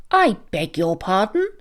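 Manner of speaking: plain reading voice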